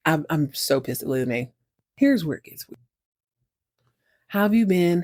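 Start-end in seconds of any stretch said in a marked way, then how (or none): 4.3-5.0 lightly voiced greeting at usual pitch; retold question, plainly put; first character asking. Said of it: "They ask each other how they've been".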